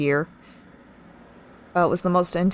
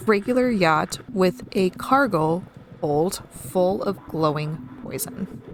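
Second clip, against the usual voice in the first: ominous mystery caller; 3 dB quieter than usual. Acted. Mysterious figure echoes keeper ominously.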